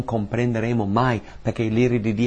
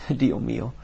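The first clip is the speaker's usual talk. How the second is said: hushed whisper; 7 dB quieter than usual. Retold or imitated. Preacher voicing Jesus forsaken on the cross, in a whisper. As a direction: whisper the forsaken cry, barely voiced. Jesus' cry of abandonment, quoted.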